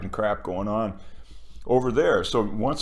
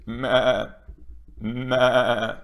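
sheep bleat; much slower than usual. Pretend. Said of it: "you know, like that".

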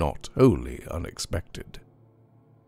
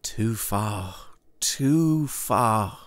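mild protest, rising in pitch on the repeat; understated exclamation of reluctance; anxious exclamation; 4 semitones higher, much slower than usual. A narrator's reading. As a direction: balk at going on, a touch insistent. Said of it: "exclaimed the goodman".

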